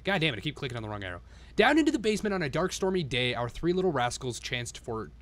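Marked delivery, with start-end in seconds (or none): 1.5-5.1 1 storybook reading. A narrator's reading. Reads the storybook rhymes.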